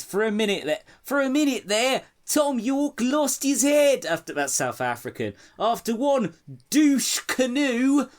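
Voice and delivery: mock Australian twang read aloud; Australian accent. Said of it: "I can't do an Australian accent".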